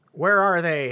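loud angry demand; yelling. Acted. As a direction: yell it in his face. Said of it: "Harry yelled in his face".

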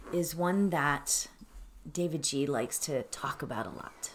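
calm, measured meditation voice; unhurried phrases with long pauses; settled, quiet teaching of a mantra; guided meditation. Acted.

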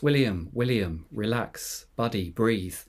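lightly acted self-soothing grandpa; imitated calm, with settling pauses; controlled calm. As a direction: talk yourself down in short, measured phrases. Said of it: "Grandpa's saying again in a controlled voice".

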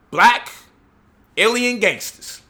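slow, high mock proclamation; mocking believer. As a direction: ham up the believer's big claim. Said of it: "he certainly will say".

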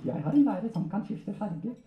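high, cheeky ventriloquist puppet voice; puppet character. Acted. Puppet correcting its handler, high comic voice. Puppet tells about its teacher.

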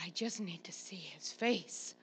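soft, low, near-whispered appeal; hushed plea. Retold or imitated. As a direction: drop to a small, spent murmur. Winded grandma pleading softly with son.

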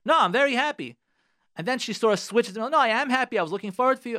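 high, loud mock insistence; insisting wife. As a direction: play the wife protesting too much. Wife insists in acted quarrel.

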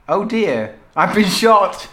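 giggling through the line; cracking up mid-line; laughing. Acted. Reading victim's line aloud.

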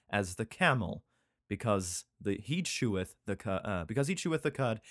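measured Bible-reading voice; lightly declaimed holy law; scripture reading. Acted. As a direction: recite the verse deliberately, phrase by phrase. Reads scripture aloud.

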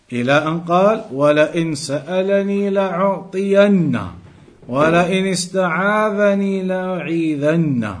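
quick, steady reading of the Arabic text; Arabic text recitation. Acted. Teacher reads the hadith text to students, in a brisk recitation. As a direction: rattle through the quoted Arabic like recitation.

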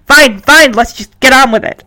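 mildly testy, first words punched; gruff, impatient. Acted. Henry hurries the announcer along, mildly gruff. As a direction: brush them off with a touch of impatience. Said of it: "Henry gruffly says impatiently".

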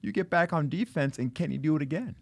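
high, fired-up coaching; halftime pep speech. Acted. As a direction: push them like a coach at halftime. Coach firing up players.

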